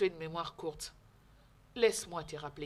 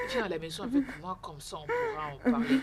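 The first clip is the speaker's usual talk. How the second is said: higher, louder pleading comfort; urgent consoling; 6 semitones higher, 7 dB louder than usual. Acted. Friend invites crying girl home, urgently consoling. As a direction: coax her urgently out of her tears.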